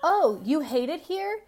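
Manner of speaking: a lightly voiced indignant parent, slow and drawn out; mock guilt-tripping mom. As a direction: lay on the guilt like a martyred mother. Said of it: "you're gonna be like".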